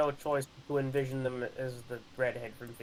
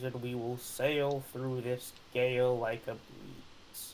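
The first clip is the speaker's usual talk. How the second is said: commanding captain. Pretend. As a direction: speak like a ship's captain. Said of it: "You have to say the line".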